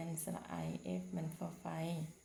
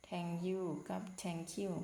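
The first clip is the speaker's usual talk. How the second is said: slow contrasting takes; much slower than usual. Shown as a demonstration. Teacher contrasts two Thank you readings for pupils. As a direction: Thank you and Thank you set side by side slowly. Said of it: "อยู่ในนี่ครูเขียน".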